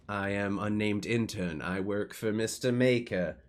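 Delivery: slow, measured robot introduction; robot intern. Acted. Robot intern greets strangers in a shop, slow and measured. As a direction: introduce yourself slowly, word by word.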